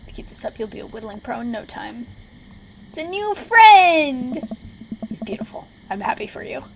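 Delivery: lightly voiced mentor, a burst of delight on the new friend; a pleased teacher encouraging; Robert voice. Mentor cheers the player's new carving, lightly voiced. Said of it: "my Robert voice".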